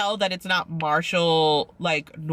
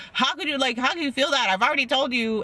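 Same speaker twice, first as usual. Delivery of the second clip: higher, put-out whiny complaint; exasperated mock; 6 semitones higher than usual. Mocking Zach to his fiancée, higher and exasperated. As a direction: play the annoyed boyfriend, half-mocking. Mocking Zach's defensive reply.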